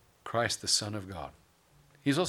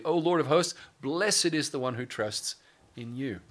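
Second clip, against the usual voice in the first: ringing proclamation; 4 semitones higher than usual. Shown as a demonstration. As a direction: proclaim the verse to the whole church. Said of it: "See the blessing there".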